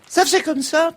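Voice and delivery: performed monster voice of La Chose; the Thing's cartoon voice; deep pitch shifted. Shown as a demonstration. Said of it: "Ça fait comment, La Chose?".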